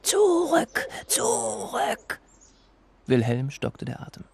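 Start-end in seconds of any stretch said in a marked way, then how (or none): 0.0-2.2 high, strained cry of alarm; startled warning cry; fearful cry. Acted. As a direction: shout it out in panic. Wilhelm cries out in fear.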